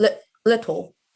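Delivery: "little" pronounced in a Cockney accent. Trying to show the british rp way to say little: cockney pronunciation of little. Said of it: "that was Cockney".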